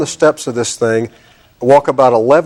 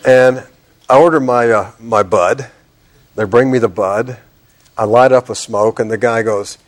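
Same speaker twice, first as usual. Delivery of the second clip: ordinary talk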